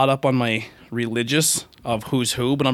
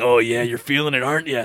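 hormone monster voice. Retold or imitated. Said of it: "hormone monster has that real deep voice".

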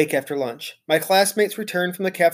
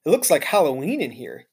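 exclaiming. Acted. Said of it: "he exclaimed".

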